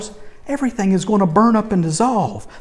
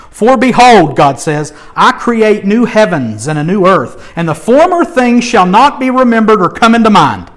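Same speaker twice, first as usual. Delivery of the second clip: loud, stirring reading of the prophecy; preacher reading Isaiah aloud with rising force; fervent scripture reading; 4 dB louder than usual. Acted. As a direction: proclaim God's words with joy. Reads Isaiah with fervor.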